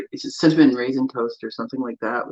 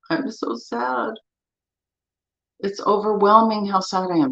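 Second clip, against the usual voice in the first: mock sad tapping statement; 7 semitones higher than usual. Shown as a demonstration. Tapping coach voicing a grieving client, mildly pained. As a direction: voice the sadness gently, as if aching inside. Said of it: "Do this with me".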